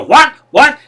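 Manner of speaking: high, loud "what?" over the noise; can't hear, shouting. Acted. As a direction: yell back as if deafened. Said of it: "you can't even hear each other".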